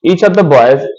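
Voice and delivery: slow reading. Shown as a demonstration. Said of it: "ये line लिखा है बेटा".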